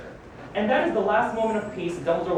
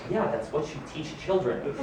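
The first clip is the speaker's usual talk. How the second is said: softer, lower, laughing under the breath; dry aside; 5 semitones lower, 7 dB quieter than usual. Acted. Commenting on his own advice to students, a soft dry aside. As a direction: toss it off quietly, amused.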